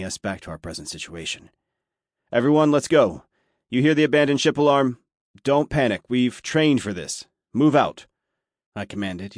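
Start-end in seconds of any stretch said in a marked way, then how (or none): 2.3-8.1 loud, high, forceful military command; commanding NCO voice. A narrator's reading. Chief ordering panicked crew to evacuate, commanding shout. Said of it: "using my N C O voice for added effect".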